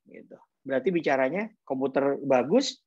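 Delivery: usual speaking voice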